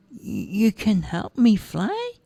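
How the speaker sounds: put-on high childish voice, slow and hopeful; little boy hardly daring to hope. Roger asks if he can fly, high and hopeful.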